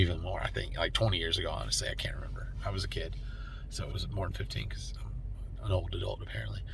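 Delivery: soft unvoiced whisper to herself; whispered aside. Real, not acted. Vlogger whispers a self-mocking aside about getting older, softly unvoiced. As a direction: drop to a whisper, half to herself.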